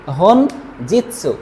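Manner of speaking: হনজিৎসু said very slowly, syllable by syllable; হনজিৎসু টেনে টেনে ধীরে বলুন. Shown as a demonstration. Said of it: "পড়তে হবে হনজিৎসু". (হনজিৎসু শব্দটা খুব ধীরে ভেঙে ভেঙে উচ্চারণ)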